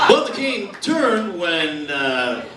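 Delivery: lightly voiced commentator; deadpan sports announcer. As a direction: keep a straight face through the analysis. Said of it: "how would the announcers be able to keep a straight face".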